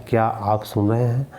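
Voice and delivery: क्या said with a rising lift; stress on क्या. Shown as a demonstration. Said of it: "तो क्या क्या है, निपात है".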